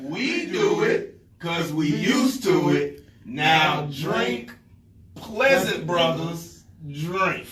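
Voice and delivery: slow, drawn-out communal toast; ritual toast. Shown as a demonstration. Brother repeating the ritual so others join, slow ceremonial toast. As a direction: lead the group phrase by phrase, spacing the words.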